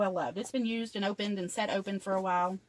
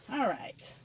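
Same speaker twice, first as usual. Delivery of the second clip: whisper. Real, not acted. Quiet aside before starting.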